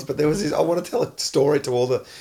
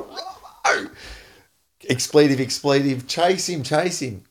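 imitating high-pitched yell. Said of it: "in that high pitched voice of his".

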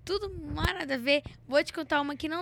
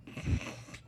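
stifled giggles; 6 dB quieter than usual. Real, not acted. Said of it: "eu achei que você não ia rir".

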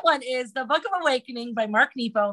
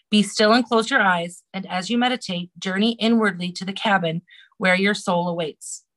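guided meditation reading. Acted. Reading a meditation to the podcast host. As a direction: guide the listener inward gently.

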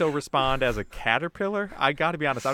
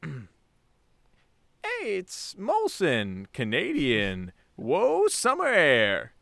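slow, stretched caterpillar ad voice; munching caterpillar; much slower than usual. Acted. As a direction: voice a goofy caterpillar, drawn out. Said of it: "a caterpillar type voice".

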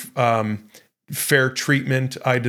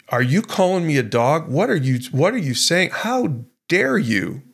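indignant; 4 semitones higher than usual. Retold or imitated. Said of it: "that sense of entitlement that you would say".

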